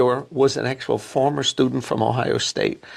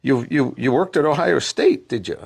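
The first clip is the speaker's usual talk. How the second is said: officious interviewer; 4 semitones higher than usual. Retold or imitated. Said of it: "the guy behind the desk was very officious".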